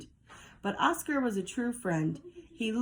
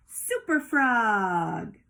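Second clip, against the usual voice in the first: slow, drawn-out proud announcement; cried proudly; 4 dB louder, much slower than usual. Acted. Froggy picking a costume, slow heroic cry. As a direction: proclaim it like a superhero. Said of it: "cried Froggy".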